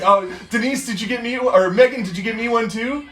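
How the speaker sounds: lightly voiced sugary plea; sweet fake ask. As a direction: ask nicely with a hint of a whine. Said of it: "And you're just like".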